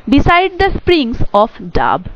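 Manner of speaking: the poem line, very slow and careful; slow poem reading. Shown as a demonstration. Teacher reads the next line of the poem, very slow recitation. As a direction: recite it slowly, each word given weight.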